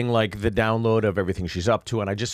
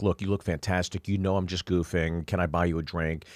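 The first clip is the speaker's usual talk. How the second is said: placating; 5 semitones lower, 5 dB quieter than usual. Retold or imitated. Placating an offended woman, retold.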